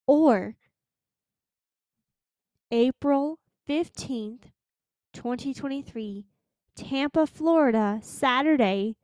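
one piece at a time, long pauses between; a slow, emphatic public announcement for listeners to follow; deliberately slow. Real, not acted. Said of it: "I'm gonna say this slow".

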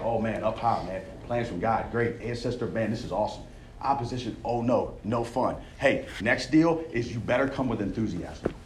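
lightly mocking retold jeers; mocking imitation. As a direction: imitate the mockers with a sneer. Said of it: "So they're still mocking him".

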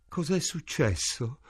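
weakly gasped question, kept small; a touch of breathless gasping. A narrator's reading. Morris coming round after the gas, gasping. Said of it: "boccheggiò".

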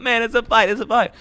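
high, loud, insistent mock rant; Joey Diaz impression. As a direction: keep hammering it, worked up. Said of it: "He's like going on like".

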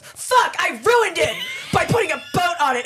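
high, laughing mock wail; mocking her complaint. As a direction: whine it like a drama queen. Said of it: "then she flips it around".

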